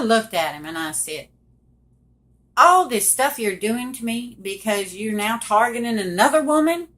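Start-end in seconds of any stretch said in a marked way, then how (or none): 2.6-6.9 rising, louder accusing outburst; angry confrontation. Retold or imitated. Wife confronting cheating husband over the email, angrily. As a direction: throw the accusation at him, getting louder.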